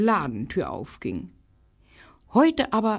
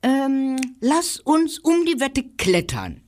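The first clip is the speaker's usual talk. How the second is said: higher squirrel voice; high eager squirrel; 9 semitones higher than usual. Acted. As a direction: suggest it like a keen squirrel. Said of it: "schlug das Eichhörnchen vor".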